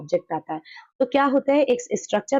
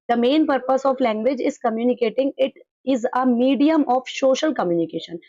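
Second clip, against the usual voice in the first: slow, deliberate reading of an English definition; slow dictation reading; much slower than usual. Acted. Teacher reading a textbook definition aloud to the class, slowly. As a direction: read it word by word for students to copy down.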